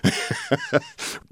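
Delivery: high villain cackle; evil cackle. Acted. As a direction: cackle triumphantly. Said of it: "laughing as Shao Kahn".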